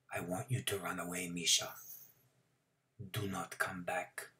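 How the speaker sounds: whispering. A narrator's reading. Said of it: "Mister Milgram whispered to me".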